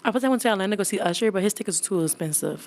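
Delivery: rushed, loud telling; talking too fast. Real, not acted. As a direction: rattle it off too quickly. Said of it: "I talk too fast".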